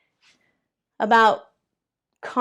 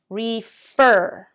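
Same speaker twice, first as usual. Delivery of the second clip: whispered. Shown as a demonstration. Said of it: "stress demo repeated twice".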